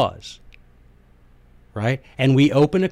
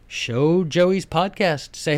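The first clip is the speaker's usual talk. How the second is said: ordinary talk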